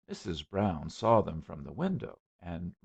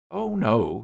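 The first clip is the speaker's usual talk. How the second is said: a touch of breathlessness, a little louder; panting; 5 semitones higher, 9 dB louder than usual. A narrator's reading. Young man carrying a heavy boy, mildly panting. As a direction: puff out the words lightly. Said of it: "he panted".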